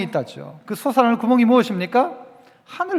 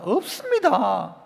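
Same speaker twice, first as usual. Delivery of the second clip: pleading widow; 3 dB quieter, much slower than usual. Acted. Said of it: "이 과부가".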